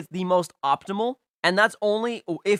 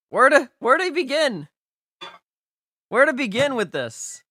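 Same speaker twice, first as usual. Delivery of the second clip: higher, louder, exasperated ranting; 4 semitones higher, 4 dB louder than usual. Real, not acted. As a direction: scold each equip like a fed-up fan. Ranting about wrong equips.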